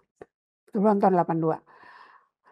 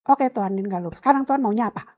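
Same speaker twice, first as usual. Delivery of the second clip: raised, heated voice, pitch climbing on the question; angry retort; 3 semitones higher, faster than usual. Retold or imitated. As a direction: demand an answer from God in anger. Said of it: "Dengan marah gitu".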